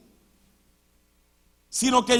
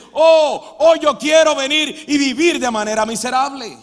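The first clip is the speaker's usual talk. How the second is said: mock cheerful quote; 5 dB louder than usual. Mocking a person choosing misery.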